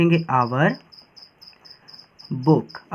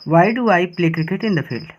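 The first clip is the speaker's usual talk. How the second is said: the full sentence in one slow, careful run; slow read-through of the finished sentence; whole sentence read slowly; much slower than usual. Shown as a demonstration. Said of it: "question mark".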